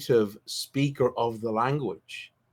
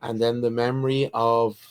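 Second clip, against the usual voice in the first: game master narration. A narrator's reading.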